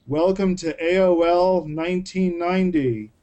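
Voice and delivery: deadpan sarcastic welcome, drawn out at the end; unimpressed mock announcement. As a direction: drag out the last phrase with mock wonder. Mocks the new moods feature.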